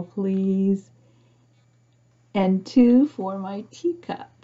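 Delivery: put-on gentle read-aloud narration for children; storybook reading. A narrator's reading. Reading picture book aloud.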